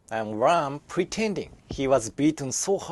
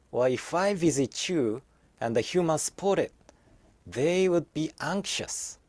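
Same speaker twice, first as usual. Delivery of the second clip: tender letter reading. Acted. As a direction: read it like a goodbye letter. Reads blue orc's farewell letter.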